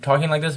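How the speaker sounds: "talking like this" in exaggerated clear articulation; over-articulated. Shown as a demonstration. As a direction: spell out "talking like this" with the mouth. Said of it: "you kinda look stupid doing it".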